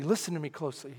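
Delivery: low, soft instruction; quiet inner voice; hushed divine voice. Retold or imitated. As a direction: speak softly, gently commanding. Holy Spirit's quiet voice retold.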